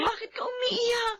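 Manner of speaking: hushed, anxious question; asking a crying friend what's wrong; worried whisper. Acted. (bulong na nag-aalala)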